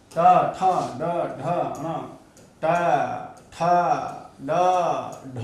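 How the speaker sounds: ट, ठ, ड, ढ said one by one with pauses; sounding out letters. Shown as a demonstration. Teacher sounding out the retroflex letters for the class. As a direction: sound each letter ट ठ ड ढ crisply, pausing between. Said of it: "ट वर्ग में कौन कौन आएंगे".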